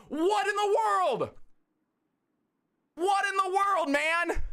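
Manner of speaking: high, amazed excited talk; elated. Real, not acted. Streamer thanking chat, giddy and high. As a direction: gush with giddy disbelief. Still elated after donation.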